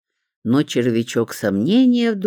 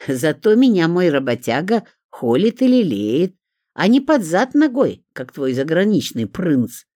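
higher, louder taunt with hurt pride; stung mockery; 5 semitones higher, 5 dB louder than usual. A narrator's reading. Zinka defending her working man, stung and mocking. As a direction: throw it back, stung and boastful. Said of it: "уязвлённо захохотала Зинка".

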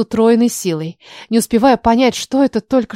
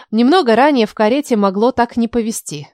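ordinary delivery

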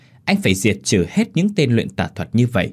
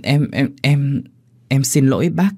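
flustered stammer; 4 semitones higher than usual. Acted. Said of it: "mặt cô bỗng đỏ bừng nói".

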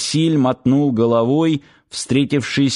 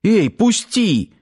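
high, drawn-out startled cry; startled protest; 9 semitones higher, slower than usual. A narrator's reading. Girl caught from behind tells attacker to let go, startled. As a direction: protest in a raised pitch, caught off guard. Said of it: "дёрнулась от неожиданности Лера".

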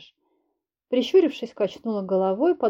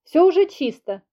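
higher, louder call; 7 semitones higher, 5 dB louder than usual. Acted. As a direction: shout it across the house. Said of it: "крикнула я".

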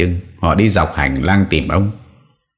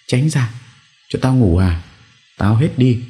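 bà cụ xua đuổi; 8 semitones higher than usual. Acted. Confused grandmother sends family away.

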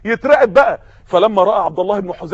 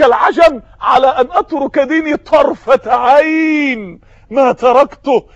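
defiant shout; slower than usual. Acted. Companion refusing Caesar's bribe, slow defiant shout. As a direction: hurl the refusal at the emperor, slowly.

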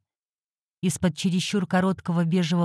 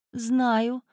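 sighing; 6 semitones higher than usual. Acted. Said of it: "вздохнула клиентка".

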